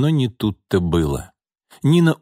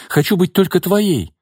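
much higher, louder, desperate woman's voice; 10 semitones higher, 4 dB louder than usual. A narrator's reading. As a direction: offer anything to keep him. Nina offers herself.

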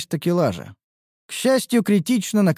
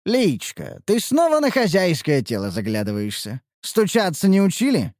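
chiding; 3 semitones higher than usual. Acted. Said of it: "пожурил Мрадиш".

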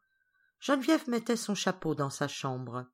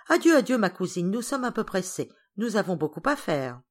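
impatient. Acted. Dormer cutting short his cousin's chatter, impatient. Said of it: "Dormer impatienté".

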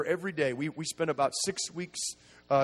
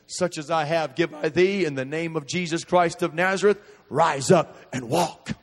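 apostle's command; 6 dB louder than usual. Acted. Preacher quoting apostle's healing command.

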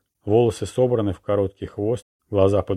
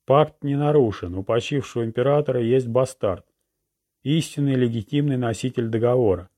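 town crier; 4 semitones higher than usual. Acted. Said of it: "глашатай, разворачивая свиток".

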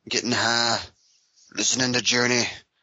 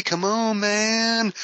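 overacted plea; 10 semitones higher, much slower than usual. Pleading higher, mock.

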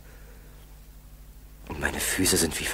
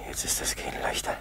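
quick whisper; 5 dB quieter, much faster than usual. Acted. Relief after wrapping feet.

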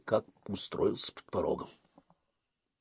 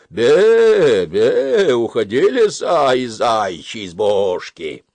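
bleating ram; 2 semitones higher, 11 dB louder, slower than usual. Acted. Ram on the step bleats at the fox, loud. Баран блеет на лису.

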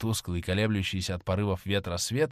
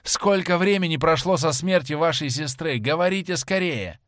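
urgent question; 5 semitones higher, 4 dB louder than usual. Acted. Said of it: "закричал он".

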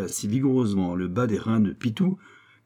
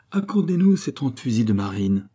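pleading; 2 semitones higher, 4 dB louder than usual. Acted. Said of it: "passant du ton de la menace à celui de la prière".

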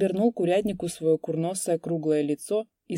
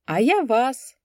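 mocking reply; 7 semitones higher, 6 dB louder, slower than usual. A narrator's reading. Kupriyan mockingly answers.

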